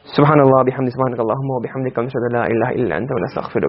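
low, quick recited Arabic supplication; closing prayer. Real, not acted. Teacher ending the class with a prayer, low rapid recitation. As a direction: murmur the closing dua, low and even.

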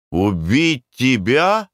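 slow, mocking disbelief; scornful echo. A narrator's reading. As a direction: laugh off the boy's threat. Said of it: "сказал Мик".

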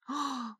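quick startled intake of breath; soft sudden gasp of realisation; sharp gasp. A narrator's reading. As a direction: gasp at the late hour. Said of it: "внезапно сообразила я".

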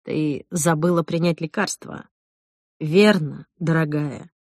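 low, slow gentle question; condescending calm. Acted. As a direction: coax her as if unwell. Jack coaxes her about medicine.

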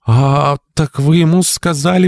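very high, slow, indignant outburst; sudden revolt, pitched high throughout; rebellious exclamation. A narrator's reading. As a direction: draw out the opening, then challenge. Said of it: "воскликнула Мария, внезапно взбунтовавшись".

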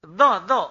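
"Do, do" with tongue tip at the upper teeth; tongue-tip sound. Shown as a demonstration. Teacher drilling the letter's articulation, careful "Do, do". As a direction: demonstrate "Do" off the upper teeth, repeated. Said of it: "ujung lidah, ujung gigi atas".

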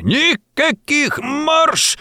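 high, drawn-out shout; high, slow angry yell; whistling shout. A narrator's reading. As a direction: shriek it so the throat whistles. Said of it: "закричал с каким-то даже свистом в горле".

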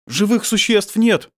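loud, high, drawn-out call; shouted scout's report; urgent report. A narrator's reading. Fighters urgently report to commander.

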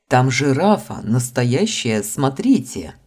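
showing off the giraffe; excited. Acted. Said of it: "не унимался маг". (восторженно)

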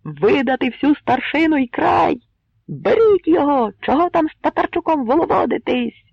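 loud high raging yells; angry crowd shout. A narrator's reading. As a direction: mob pressing to seize him. Angry mob keeps shouting. (розлючена юрба наступає)

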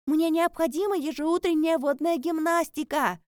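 loud, high shout. A narrator's reading. Sai shouts her excuse from the bathroom. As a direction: call it out from the bath. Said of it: "крикнула она".

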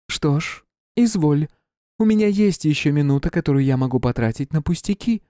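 high, disdainful queen voice; haughty queen. Acted. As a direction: sneer it like a disgusted queen. Queen answers dismissively.

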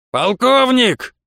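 drawn-out high call across the stockade. A narrator's reading. Gang leader hailing the colonel, a drawn-out shout. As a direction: call him out slowly from afar. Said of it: "прокричал из-за чистокола главарь".

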